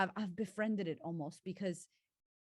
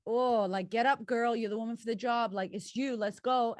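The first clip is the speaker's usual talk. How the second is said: louder, higher cheering; rousing mock motivational coach; hype pep talk; 3 semitones higher, 5 dB louder than usual. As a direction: pump her up to get on stage. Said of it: "the audio was like".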